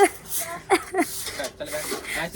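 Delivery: laughing after a greeting; a couple of seconds of soft laughter. Real, not acted.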